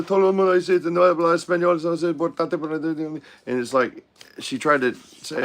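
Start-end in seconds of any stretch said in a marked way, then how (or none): 0.0-3.2 a touch of the YouTuber begging staff; panicky YouTuber. Retold or imitated.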